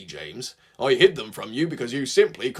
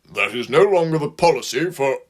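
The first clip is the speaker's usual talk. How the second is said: awkward. A narrator's reading. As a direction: stumble through it uncomfortably. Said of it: "Gordon said with difficulty".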